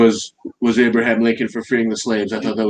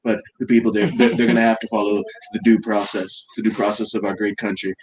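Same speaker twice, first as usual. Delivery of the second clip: lightly voiced Trump, boastful and repetitive; Trump impression. Mocking Trump for a friend, lightly voiced boastful Trump. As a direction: praise everyone like a salesman president. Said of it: "That's a great impression".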